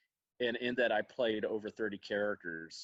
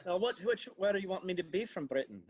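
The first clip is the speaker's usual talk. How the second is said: put-on British accent, pitched high; higher-voiced show-off British accent; 8 semitones higher than usual. Shown as a demonstration. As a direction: answer playfully in a British accent. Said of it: "can do the best British accent".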